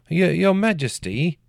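nervous squeak before the king; quavering. A narrator's reading. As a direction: stumble over it like a terrified peasant. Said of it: "he quavered".

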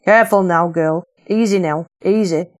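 a hint of a firm, steadying Lancashire woman; lightly voiced calming older woman. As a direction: soothe the struggling girl, gently firm. Maud voiced calming Anna.

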